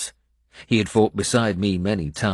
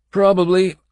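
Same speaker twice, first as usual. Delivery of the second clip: Finnan's voice; 13 semitones higher, 10 dB louder than usual. Acted. Finnan's blunt answer.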